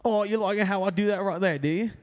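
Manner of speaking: put-on Cockney British accent. Shown as a demonstration. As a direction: show off a cheeky Cockney accent. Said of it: "Give me a Cockney British accent".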